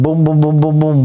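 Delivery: rapid-fire vocal booms; imitated brawl booms. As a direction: drum out the blows as booms.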